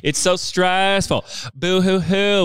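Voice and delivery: mock whiny sobbing; fake crying. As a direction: pretend to cry, hammed-up. Mock whining about dreaded launches.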